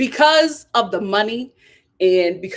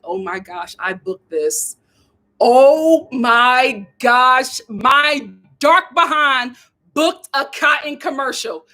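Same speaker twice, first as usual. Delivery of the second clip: quiet then thrilled; slower than usual. Retold or imitated. Thrilled in her car after the audition. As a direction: whisper it, then burst out. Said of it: "I was like".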